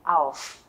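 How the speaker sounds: "auf" said as the stressed prefix. Shown as a demonstration. Teacher answering where the stress falls, weight on "auf". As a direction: give "auf" full weight as the stressed syllable. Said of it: "Trọng âm sẽ nhấn vào chữ".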